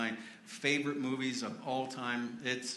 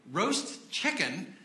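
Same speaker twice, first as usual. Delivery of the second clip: mock English accent; 5 semitones higher, slower than usual. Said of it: "he does it with a much better accent than I do".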